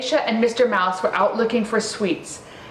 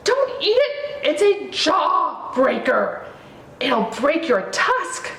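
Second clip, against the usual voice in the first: high mouse voice warning; urgent little squeaky mouse; Mister Mouse warns Ganesha in a high squeak; 7 semitones higher, slower than usual. Acted.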